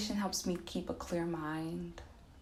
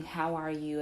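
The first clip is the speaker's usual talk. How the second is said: casual, offhand "How are you?"; passing greeting. Shown as a demonstration. Asking people in passing, as a mere greeting. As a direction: toss it off without waiting for an answer. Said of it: "almost like a greeting".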